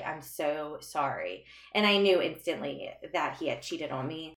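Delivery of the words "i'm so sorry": softer, slower mock teary repeat; quietly retold weeping plea; crying apology. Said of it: "starts crying and saying".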